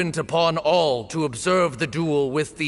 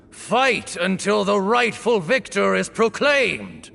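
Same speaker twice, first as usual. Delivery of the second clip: commanding call; 3 semitones higher than usual. Acted. Officiant commands duel to begin.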